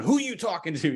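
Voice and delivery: mildly irate spouse cutting in; mock-indignant demand, lightly acted; retold challenge from a fired-up spouse. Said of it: "She's fired up".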